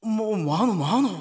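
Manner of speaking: startled gasp. Retold or imitated. Teacher startled seeing her mother.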